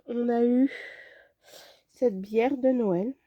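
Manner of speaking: breathless from covid; short of breath while talking. Real, not acted. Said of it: "si je suis essoufflée et tout".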